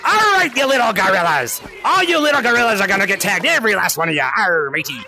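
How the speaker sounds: deep, mock-menacing pirate voice; pirate shark villain. Shark player warning little gorillas, deep pirate menace. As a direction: taunt them low like a pirate.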